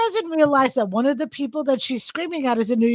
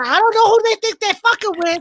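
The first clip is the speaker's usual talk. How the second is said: imitated angry rant; 5 semitones higher than usual. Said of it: "now the Spanish is coming out of her".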